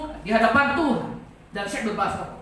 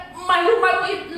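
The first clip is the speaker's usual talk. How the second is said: louder scolding; 5 semitones higher, 4 dB louder, slower than usual. Retold or imitated. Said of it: "lebih kenceng saya ngomong".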